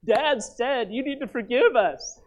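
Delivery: sheepish sons passing on their father's words; brothers pleading. Retold or imitated. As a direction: voice the guilty brothers asking, drawn out. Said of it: "his brothers come to him and say".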